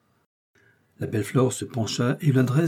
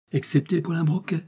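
higher-pitched, quick retort; sharp interruption; 6 semitones higher than usual. A narrator's reading. Flore cuts Miss Eden off mid-answer, sharply. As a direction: cut in briskly, pitch raised. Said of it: "reprit vivement Flore, lui coupant la parole".

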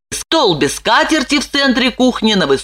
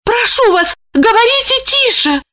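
much higher, urgent begging woman's voice; pleading Lipochka. A narrator's reading. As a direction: beg him to hush. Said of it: "взмолилась Липочка".

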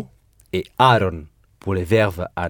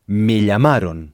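me llamaron with the ending -ron clearly heard; teacher models the clear ending. Shown as a demonstration. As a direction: make the ending -ron ring out. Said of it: "bien entendre la terminaison".

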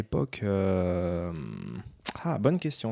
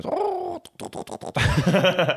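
dial-up modem noise; 9 semitones higher than usual. Pretend. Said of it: "je suis imitateur officiel de modem".

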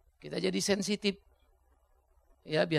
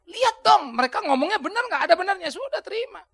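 high, loud urging call; emphatic urging; 10 semitones higher, 5 dB louder than usual. Real, not acted. Preacher urging listeners to hear their critics, loud and high. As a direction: call out to wake them up.

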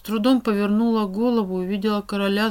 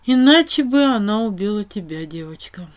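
soft voice; 7 dB louder than usual. A narrator's reading. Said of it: "Голос стал мягким".

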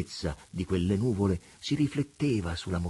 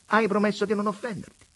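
high, loud mocking vagabond voice; wheedling rogue, raised and pitched high; vagabond Preola; 6 dB louder, faster than usual. A narrator's reading. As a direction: preach it like a sly tramp at God. Preola presses.

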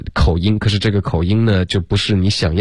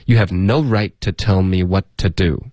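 beats on "right to" and "what to", "to" kept weak; strong rhythm. Shown as a demonstration. Teacher shows students the sentence's rhythm, strongly rhythmic. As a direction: make "right to" and "what to" rhyme in a steady beat. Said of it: "节奏感还挺强的".

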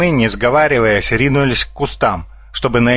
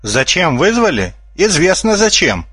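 shout from the bushes; 7 semitones higher than usual. A narrator's reading. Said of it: "выкрикнул из кустов чей-то голос".

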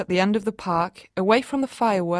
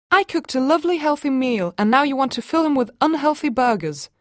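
indignant mum; 5 semitones higher, 3 dB louder than usual. Acted. Argument at the park.

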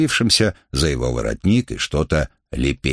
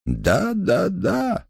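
high, gentle and fading softer; softly; much slower than usual. A narrator's reading. Lindet calming the sick Robespierre, soft and gentle. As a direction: soothe him, letting the last yes fall away. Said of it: "мягко сказал Ленде".

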